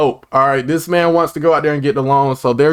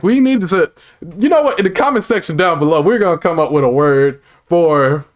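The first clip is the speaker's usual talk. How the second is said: rally the viewers, getting carried away with excitement; excited. Real, not acted. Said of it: "why do I sound so excited".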